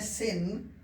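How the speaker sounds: "सिन" with a brief, light i; short i. Shown as a demonstration. Teacher reading a short-i word for students, demonstrated short i. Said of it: "छोटी ई में".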